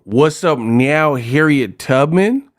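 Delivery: slow, lightly mocking gangster line; mock Compton gangster. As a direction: draw the words out in disbelief. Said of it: "there'd be some Compton gangsters".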